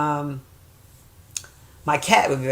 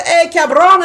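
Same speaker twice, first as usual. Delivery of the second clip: hollered high greeting, rough affection between friends; Ruben; 11 semitones higher, 8 dB louder than usual. Retold or imitated. Imitating her old friend greeting her, loud holler. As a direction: imitate a friend calling out loudly. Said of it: "every time I seen him, he called".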